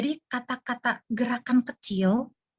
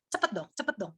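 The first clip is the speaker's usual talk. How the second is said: much softer, impatient hurry-up; under your breath, urge them to hurry; muttered impatience; 8 dB quieter than usual. Retold or imitated. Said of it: "Jadi dia tuh pengennya".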